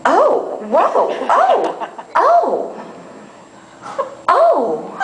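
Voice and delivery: high breathy oohs of delight; pleasured moans. Retold or imitated. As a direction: moan with surprised pleasure. Moaning in pleasure in dress.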